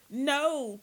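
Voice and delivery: loud, high desperate shout. A narrator's reading. Terrified prisoner shouts his refusal at John, loud high shout. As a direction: yell the refusal in panic. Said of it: "Tim shouted".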